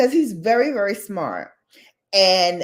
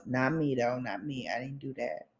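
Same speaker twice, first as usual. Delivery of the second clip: mock innocent denial; 6 semitones lower, 12 dB quieter than usual. Real, not acted. Joking denial, drops very soft.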